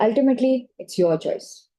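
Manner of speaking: calm and level, matter of fact; supportive factual tone. Shown as a demonstration. To the patient, supportive but factual. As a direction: state it kindly as a plain fact. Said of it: "The intonation has changed".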